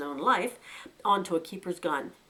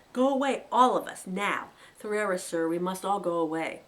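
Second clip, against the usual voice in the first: urgent plea; 3 dB louder than usual. Acted. Fiver pleads urgently.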